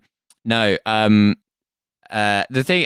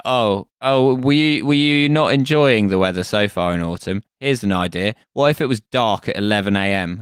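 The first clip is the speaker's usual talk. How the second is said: mocking sing-song; 2 semitones higher than usual. Mocking the clock changers.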